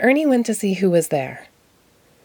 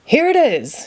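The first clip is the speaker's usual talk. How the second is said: excited cry; 7 semitones higher than usual. Acted. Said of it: "he cried".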